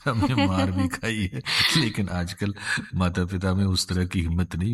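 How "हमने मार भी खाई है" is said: said through a light chuckle; laughing. Real, not acted. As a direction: chuckle while owning up to it. Joking about own childhood scoldings. (हल्की हँसी के साथ)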